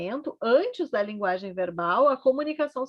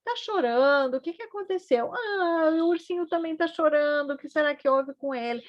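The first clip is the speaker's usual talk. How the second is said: put-on talking to baby; 4 semitones higher than usual. Shown as a demonstration. Mother to her crying baby, high concerned baby talk. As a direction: ask the baby tenderly what happened. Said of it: "então".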